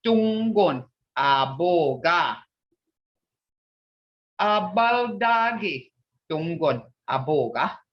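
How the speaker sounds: Tungon aboga said slowly; teacher drilling the phrases; slow model phrases. Shown as a demonstration. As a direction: sound out each word carefully. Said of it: "Abaldagi means".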